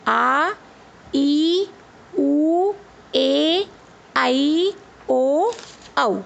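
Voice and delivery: आ, ई, उ, ए each held long and rising; long vowels drawn out. Shown as a demonstration. Teacher showing children long vowels, each drawn out. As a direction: stretch every long vowel. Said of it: "देखा बच्चों आपने, हमने कैसे बोला?".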